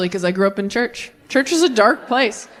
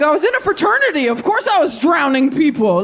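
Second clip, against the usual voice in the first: put-on God as frat boy; 5 semitones higher than usual. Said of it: "he's like".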